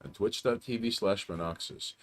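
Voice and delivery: hammed-up radio host introduction; radio host intro. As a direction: announce the guest like a late-night DJ. Host introduces guest on stream.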